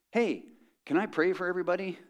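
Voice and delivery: high, loud and carrying across the room; penetrating loud voice. Retold or imitated. Squadron mate loudly asks to pray over lunch, booming. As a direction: call it out so the whole restaurant hears. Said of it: "he had one of those voices that was very penetrating".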